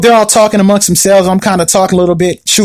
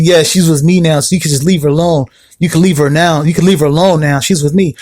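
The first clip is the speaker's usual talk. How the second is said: put-on lower, cocky boyfriend voice; smug new boyfriend; 4 semitones lower than usual. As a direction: play the rival, low and smug. New boyfriend Juan on phone.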